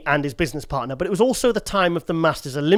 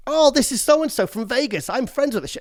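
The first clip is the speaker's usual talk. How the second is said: mock girly voice; 7 semitones higher than usual. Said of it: "She bumps into another girl".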